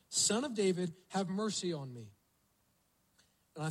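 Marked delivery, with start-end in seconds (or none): 0.1-2.1 retold shout. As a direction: call out more insistently, stopping short of a full shout. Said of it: "He shouted all the more".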